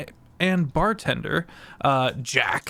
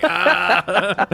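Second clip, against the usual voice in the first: surprised ah; 5 semitones higher, 6 dB louder than usual. Retold or imitated. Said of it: "I was like".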